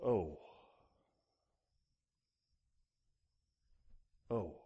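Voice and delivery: low, soft, barely voiced murmur; hushed awe. Preacher shows being speechless before God's sovereignty, hushed awe. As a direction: let it fall away, lost for words. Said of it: "You just go".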